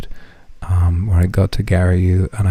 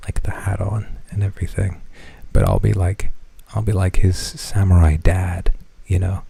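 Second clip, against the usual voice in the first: ordinary delivery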